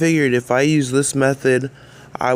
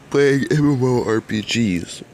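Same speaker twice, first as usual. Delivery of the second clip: talking through a yawn. Real, not acted. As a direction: yawn it out while speaking. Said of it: "I was yawning".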